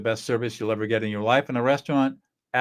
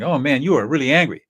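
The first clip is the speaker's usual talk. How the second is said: demo affect label; 3 semitones higher, 7 dB louder than usual. Shown as a demonstration. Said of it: "So you could say something".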